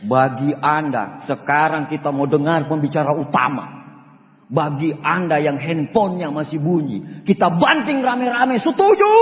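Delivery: mild imitation of a hyped MC; MC announcing. MC rallying the audience, a hint of announcer voice. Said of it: "M C-nya ngomong kayak gini".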